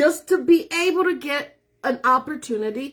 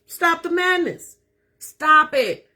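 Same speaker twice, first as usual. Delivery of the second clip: excited; 5 semitones higher, 4 dB louder, slower than usual. Real, not acted.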